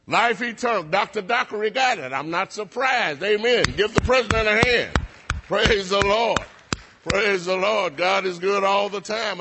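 celebrating a right answer; excited praise. Real, not acted. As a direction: lift the room with joy. Excited praise, applause for president.

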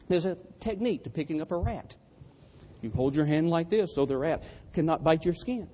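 ordinary talk

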